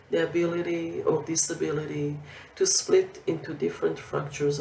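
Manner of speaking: measured poetry reading with pauses between phrases; poem recitation. Acted. Poet reading her poem for Mexico to a festival audience, measured recitation. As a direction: read it as verse, line by line.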